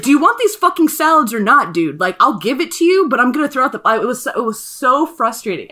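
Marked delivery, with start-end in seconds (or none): 0.0-3.8 loud, irritated snap back at a rude customer; fed-up, bitchy retort; bitchy comeback. Retold or imitated. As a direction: retell it with real attitude, louder. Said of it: "I was a complete bitch back to him".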